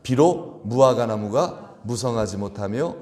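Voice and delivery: slow congregational recitation; scripture reading. Shown as a demonstration. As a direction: read the verse aloud together, slowly. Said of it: "시작".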